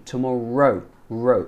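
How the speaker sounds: "Tomorrow" with its last syllable picked out; clear R tomorrow. Shown as a demonstration. Teacher correcting a learner's R, "Tomorrow" with a drawn smooth "ro". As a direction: lean on a smooth R in "Tomorrow", then "ro". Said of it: "it's just a little thing".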